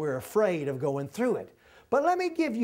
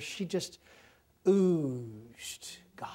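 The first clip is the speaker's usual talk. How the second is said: hushed whisper; 3 semitones lower, 4 dB quieter, much slower than usual. Retold or imitated. Preacher describing godly great aunt.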